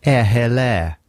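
put-on posh accent in three words; mock posh accent. Shown as a demonstration. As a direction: say it as a posh greeting. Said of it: "the one that makes you sound posh".

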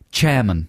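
hard ch opening, "chairman" for German; German-accented "German". Shown as a demonstration. Co-host suggests phonetic spelling for audiobooks, "chairman" said German-style. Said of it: "if a German person said the word German".

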